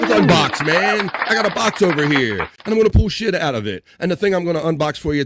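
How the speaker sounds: loud, high hype host; hyped unboxing host. Acted. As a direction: pump up the unboxing crowd. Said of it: "let me find my element here".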